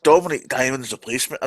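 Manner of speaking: put-on Scottish accent. Co-host naming the new presenter, exaggerated Scottish accent. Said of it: "doing that in a Scottish accent".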